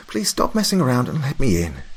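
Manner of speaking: a friend losing patience at the door; Mary, exasperated. A narrator's reading.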